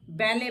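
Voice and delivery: बैले ending on an open "ay" sound; silent final T. Shown as a demonstration. Teacher models the exception, बैले with silent T. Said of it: "टी नहीं पढ़ते".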